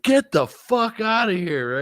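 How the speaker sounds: a drawn-out, squeaky "no way" to a buddy; a hammed-up, slow, high-pitched outburst of disbelief; mock amazed disbelief. Teller's retold amazement.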